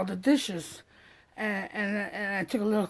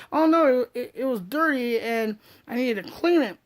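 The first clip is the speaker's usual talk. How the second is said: Mary explaining breezily; 4 semitones higher, 5 dB louder than usual. Retold or imitated.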